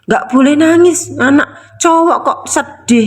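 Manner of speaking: slightly high mock parent; mild acted telling-off; scolding parent. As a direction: imitate a parent chiding a son. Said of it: "orang tuanya itu marah-marah".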